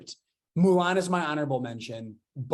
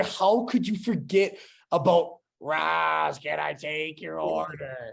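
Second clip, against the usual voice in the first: Roz; 2 semitones higher, slower than usual. Acted. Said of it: "do a Roz impression".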